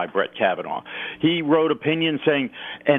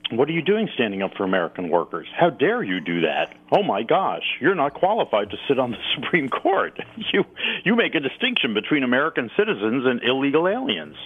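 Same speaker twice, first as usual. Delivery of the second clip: mock Democrats. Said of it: "Let's let the Democrats say".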